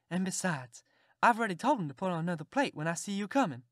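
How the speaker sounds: a country aunt insisting he stay for dinner; Aunt Sally. Acted.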